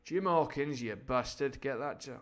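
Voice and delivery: rough attempt at a gruff actor impression; hammed-up swearing, swinging from shouted orders to muttered curses; Sean Bean. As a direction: lightly imitate a film star cursing his crew. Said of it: "I can't really do Sean Bean".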